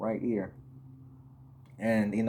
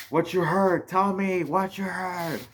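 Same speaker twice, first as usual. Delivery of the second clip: mildly annoyed; 7 semitones higher than usual. Retold or imitated. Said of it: "kinda pissed at me".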